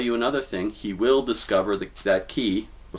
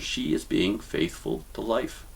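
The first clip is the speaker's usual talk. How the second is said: slower, weighing every word; slow emphatic repeat. Shown as a demonstration. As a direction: say it again slowly so it sinks in. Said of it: "I'll say it again because it's very important".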